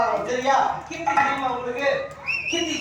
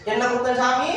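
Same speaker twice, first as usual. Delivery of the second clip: measured, deferential question to the god; respectful asking. Shown as a demonstration. Priest shows boy how to ask the god, respectfully. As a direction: model the polite way to ask. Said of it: "அப்படின்னு கேளு".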